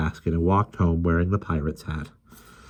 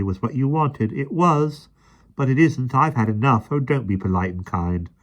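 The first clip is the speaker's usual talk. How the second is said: put-on protesting boy; 6 semitones higher than usual. A narrator's reading. Michael protesting to Mary.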